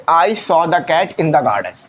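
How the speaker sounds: I saw the cat in the garden, read slowly word by word; slow example sentence. Shown as a demonstration. Teacher reading an example sentence to students, slowly. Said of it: "तो आप क्या बोलते?".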